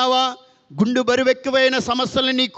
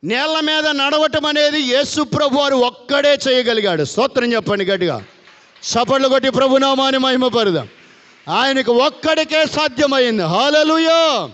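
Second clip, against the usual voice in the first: rising preacher exhortation; preaching; 3 semitones higher, 4 dB louder than usual. Acted. Preacher rousing the church to praise, fervent call. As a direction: lift the congregation with fervent praise.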